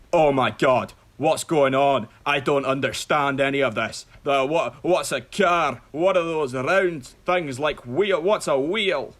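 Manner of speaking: panicked Scottish-style cartoon ogre outburst; Shrek. Ogre lost in reality, baffled by cars and wheels, bewildered. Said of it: "That was Shrek".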